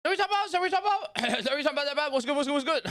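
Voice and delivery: high squeaky Carl impression; Carl Weezer impression. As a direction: pitch way up like a cartoon kid. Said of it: "don't even try to do Carl Weezer".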